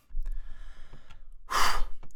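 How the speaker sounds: long breathy sigh. Real, not acted. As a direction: let out a drawn-out sigh. Closing off the rejected villain.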